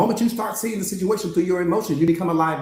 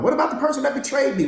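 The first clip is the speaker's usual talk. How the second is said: higher, complaining voice of a wounded student; hurt student; 6 semitones higher than usual. Acted. Coach voicing a student who was left, higher and complaining. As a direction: plead your hurt to the coach.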